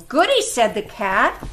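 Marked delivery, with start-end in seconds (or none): 0.1-0.4 high-pitched little cheer; delighted Cat. A narrator's reading. Cat pleased with its share, high and delighted. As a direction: squeal it lightly, much higher.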